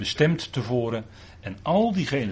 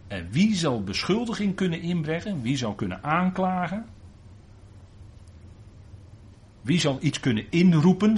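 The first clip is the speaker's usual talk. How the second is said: emphatic scripture reading; 8 semitones higher, 4 dB louder than usual. Acted. Preacher reading Paul's challenge to the congregation, rising and fervent. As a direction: voice climbing higher and louder with each question.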